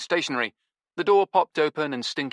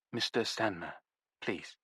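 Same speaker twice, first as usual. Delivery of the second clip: much softer, meek plea; wilted plea; 8 dB quieter than usual. Acted. Araminta cowed by Stinky, meekly pleading. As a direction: shrink into the words. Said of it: "she immediately wilted".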